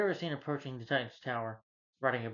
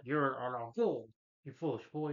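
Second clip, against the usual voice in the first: slow, contemptuous elder; a light take on a menacing grandfather; scornful villain. Retold or imitated. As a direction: sneer it down at the boy, slowly. Undead grandfather scorns Robin.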